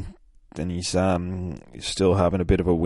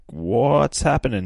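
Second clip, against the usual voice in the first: slow, higher mock bewilderment; acted confusion, raised pitch; baffled questioning; 4 semitones higher, 4 dB louder, slower than usual. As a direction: draw it out as a puzzled question.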